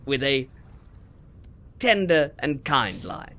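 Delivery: lightly voiced wildlife narrator; hint of a nature documentary host. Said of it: "perfect example ... natural habitat".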